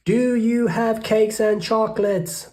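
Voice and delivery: high, loud eager cry; greedy cry. Acted. Rat calling into the cave, high and loud. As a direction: call into the cave hungrily. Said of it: "the highway robber cried".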